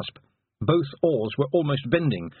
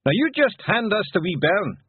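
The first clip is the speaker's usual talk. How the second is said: raised Scots shout; broad Scottish accent; 9 semitones higher, 3 dB louder than usual. Acted. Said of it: "shouted Rob Anybody from the stern".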